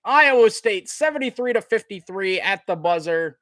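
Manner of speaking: big sportscaster sign-off at the buzzer; excited play-by-play. Real, not acted. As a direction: announce the victory to the whole arena. Calls the final seconds of win.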